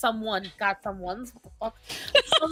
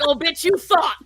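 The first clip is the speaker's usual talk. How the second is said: mock-gloating cry through laughter, higher; gloating mockery; 5 semitones higher, 4 dB louder, slower than usual. Joking as God taunting her over the cat, gloating mockery. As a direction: crow it teasingly, breaking into laughs.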